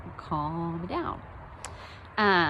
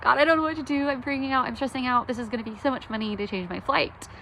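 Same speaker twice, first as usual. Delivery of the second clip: toned-down frantic prayer; 4 semitones higher than usual. Retold or imitated. Praying to God about the lost passport, in a toned-down frantic rush. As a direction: pray it out in a half-hearted fluster. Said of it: "I say all that a lot more frantically than that".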